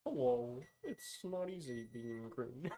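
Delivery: slow, soft, lightly voiced frog puppet; a hint of a frog puppet, drawn out; Kermit the Frog. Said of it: "Terrible Kermit the Frog impression".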